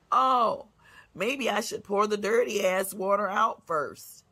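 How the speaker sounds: mocking a dim parent; mock clueless parent.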